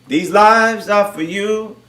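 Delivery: very slow, word by word; slowed right down, deliberately spaced; slow emphatic repeat. Real, not acted. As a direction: draw it out so it sinks in.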